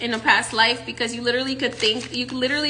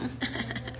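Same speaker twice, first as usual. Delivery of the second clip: evil villain laugh; 14 dB quieter than usual. Acted. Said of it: "It's like my evil villain laugh".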